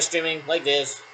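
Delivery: slow, drawn-out demo of how it used to sound; old streaming voice. Shown as a demonstration. Telling someone how the voice sounded before, slowed and stretched. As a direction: stretch the words out slowly to show the old voice. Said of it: "But before I was, like".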